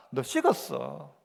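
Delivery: hushed, deliberate rebuke; quiet verdict. Acted. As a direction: lay it down low and slow like a sentence passed. God's verdict voiced to church.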